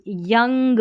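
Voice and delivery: यंग slowly, ou said as 'uh'; slow, careful यंग with an 'uh' vowel; short 'uh' sound. Shown as a demonstration. Teacher showing learners the ou in यंग, slow 'uh' sound. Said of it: "अ करके sound आ रहा है".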